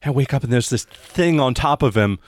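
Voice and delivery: halting, stammered account of a horror, mildly acted; shaken witness. GM voices the shaken girl.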